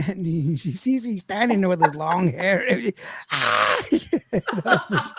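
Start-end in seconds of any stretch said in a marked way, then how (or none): 3.3-3.8 quick mock scream of fright; imitated scream. Retelling aunt's fright at long-haired figure, mock scream. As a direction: cry out as if startled, lightly. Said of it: "just screaming".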